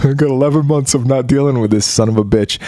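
laughing with relief, lightly voiced; gleeful parent, half laughing; relieved and laughing. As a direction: chuckle through the relief. Parent relieved, elf boxed.

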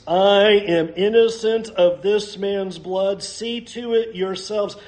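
slow and firm disclaimer; deliberate, distancing himself from it; Pilate washing his hands. Acted. Pilate refusing blame before the crowd, slow and firm. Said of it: "Pilate wants nothing of this".

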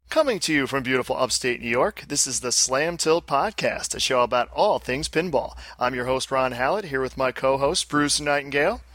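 announcer read of the intro; podcast intro. Acted. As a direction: read it like a show opener. Does the show intro.

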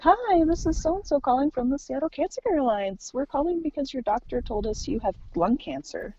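high, chirpy phone-caller voice; incongruously perky bad-news call; mimicked clinic caller.

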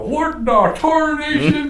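high, slow hammed-up cowboy voice; Slim Pickens voice. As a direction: yell it like a crazy old Western cowboy. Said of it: "Slim Pickens".

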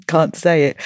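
chuckling at a slip; laughing. Real, not acted. Host trips over the soup's name, laughing. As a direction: laugh through your own stumble. Laughs after tripping on tongue-twister.

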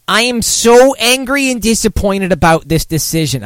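high nervous New York whine; Woody Allen voice. Retold or imitated. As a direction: read it like a fretful Woody Allen. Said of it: "making her sound like Woody Allen".

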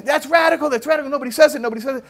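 high, loud repeated exclaiming; can't stop saying it, wound up; worked-up repeating. Retold or imitated. Scholar who can't calm down, excited repeating. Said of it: "a good couple minutes for him to calm down".

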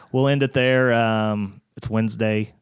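podcast outro. Acted. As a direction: pitch the likes and follows like a host wrapping up. Show outro and call to action.

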